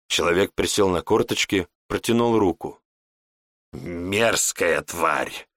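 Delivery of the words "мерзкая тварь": disgusted. A narrator's reading. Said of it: "скривился Леон".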